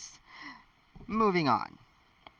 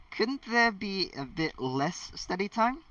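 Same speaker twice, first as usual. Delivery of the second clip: higher-pitched hopeful plea, lightly acted; 7 semitones higher than usual. A narrator's reading. Harry asking Hermione for less study time, hopeful. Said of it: "Harry asked hopefully".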